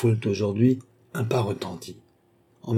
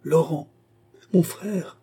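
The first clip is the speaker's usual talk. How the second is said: high-pitched call through a door; short, raised summons; 7 semitones higher, slower than usual. A narrator's reading. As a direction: call for the doorkeeper. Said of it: "heurta la porte en appelant".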